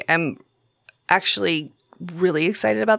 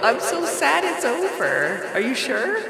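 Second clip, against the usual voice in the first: mock sad; 6 semitones higher than usual. Pretends sadness show is over.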